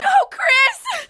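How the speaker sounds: high tearful cry; crying plea. Acted. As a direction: wail it through tears.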